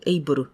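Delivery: able as Japanese "eiburu", with a full ru at the end; Japanese-sounding final l on able; katakana-style ending. Retold or imitated. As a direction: mimic the learner's able with a hard bu-ru. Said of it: "そんな感じに聞こえた".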